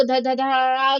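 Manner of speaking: mock monotone recitation; one unvarying rhythm. Shown as a demonstration. Teacher showing how not to read a poem, monotone. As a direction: rattle the syllables off on one even beat. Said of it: "एक ही rhythm से उसको पढ़ लें".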